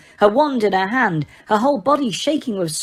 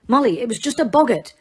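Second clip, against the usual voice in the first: soothingly; 5 semitones higher, faster than usual. A narrator's reading. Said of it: "he said soothingly".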